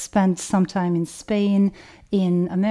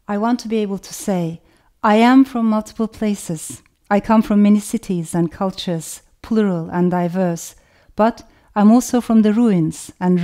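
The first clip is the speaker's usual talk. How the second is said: measured, slightly raised reading voice; reading her own passage aloud. Acted. Author reading her manifesto to the audience, measured reading voice. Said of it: "I want to read just a little passage".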